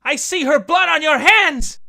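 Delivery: a crazed sister crying out at her brother; accusing cry. Acted. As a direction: hurl it at the brother. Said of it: "she cried out".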